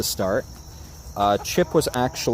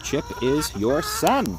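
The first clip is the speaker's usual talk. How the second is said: gentle firm reminder; 5 semitones higher, slower than usual. Real, not acted. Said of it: "repeated to the hen".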